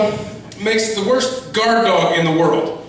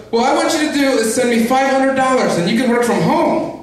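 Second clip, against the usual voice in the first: foreign telemarketer impression; 4 semitones higher than usual. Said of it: "and he goes".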